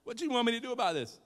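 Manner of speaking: high, loud mock exasperation, then fast; exasperated Jesus. Preacher voicing Jesus answering Mary, high and loud. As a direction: throw up your hands at your mother. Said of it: "And he's like".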